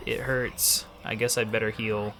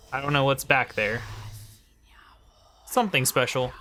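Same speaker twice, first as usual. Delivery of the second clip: whispering. Real, not acted. Teasing secret spot in a hush.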